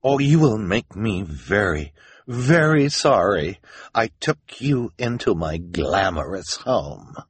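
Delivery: slow, emphatic threat, dropping at the end; stern threat. Acted. Esme threatens the orphans, ordering sternly. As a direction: warn them haughtily, stretching each word. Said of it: "she ordered".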